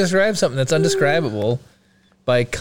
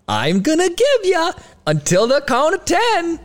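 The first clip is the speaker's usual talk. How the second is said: put-on Minnesota accent; 10 semitones higher than usual. Gangster movie threat redone in a Minnesota accent. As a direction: bark the threat in an over-the-top Minnesota accent. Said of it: "movie quote ... Minnesota accent".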